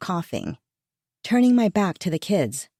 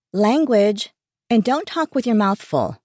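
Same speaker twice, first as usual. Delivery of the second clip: scolding; 4 semitones higher, 4 dB louder than usual. Acted. Mother scolding son.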